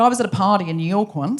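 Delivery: lightly put-on Australian; attempted Australian accent. Shown as a demonstration. Guest telling a party story, attempted Australian accent. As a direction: tell it in a careful Aussie accent. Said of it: "trying to do an Australian accent".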